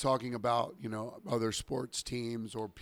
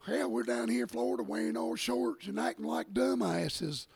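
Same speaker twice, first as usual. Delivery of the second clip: higher, hammed-up Southern country voice; imitating bar guys jeering at Florida, pitched up; mock Southern drawl; 4 semitones higher than usual. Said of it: "and then they go".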